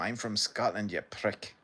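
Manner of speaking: put-on half-hearted Scottish accent; light, partial Scottish accent; attempted Scottish accent. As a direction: have a rough go at sounding Scottish. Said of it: "I can't do the full accent".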